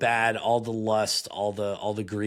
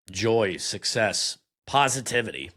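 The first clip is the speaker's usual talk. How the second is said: Marine style. Acted. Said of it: "just the Marine in me".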